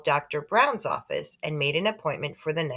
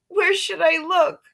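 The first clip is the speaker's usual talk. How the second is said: put-on higher, louder girl's voice; girl asking; 13 semitones higher, 5 dB louder than usual. A narrator's reading. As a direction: ask it like an anxious girl. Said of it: "Sheila asked".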